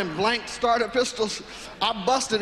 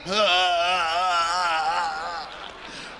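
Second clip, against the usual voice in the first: long, drawn-out acted laugh; mobster laughing. Mobster amused by the would-be robber, laughing. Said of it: "he just started laughing".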